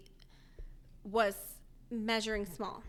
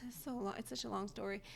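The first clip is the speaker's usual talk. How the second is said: breathless and soft; out of breath; 7 dB quieter, faster than usual. Real, not acted. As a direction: talk short of breath. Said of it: "You're out of breath".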